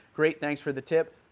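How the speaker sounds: plain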